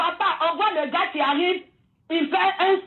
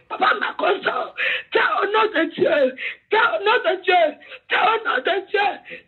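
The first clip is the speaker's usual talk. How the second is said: tearful, raised appeal; crying out to God. Real, not acted. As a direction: beg through tears. Crying appeal to host by name.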